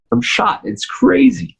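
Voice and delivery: high laughing exclamation. Real, not acted. Laughing about being worn out.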